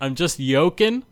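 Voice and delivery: "yoking" said with a Y sound in place of J; yolk pun. Pretend. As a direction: say "yoking" as yolk-ing, a punning swap for joking. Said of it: "It's an egg joke".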